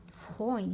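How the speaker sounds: put-on فخوين with "oy" as in boy; oi diphthong. Shown as a demonstration. Teacher models the diphthong, فخوين with clear oi. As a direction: say فخوين with o gliding into i. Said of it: "اوي كيما".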